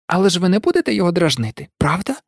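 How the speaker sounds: quick, mildly worried question. Acted. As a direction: ask quickly, with a touch of concern. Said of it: "стурбовано додала вона". (трохи стурбовано)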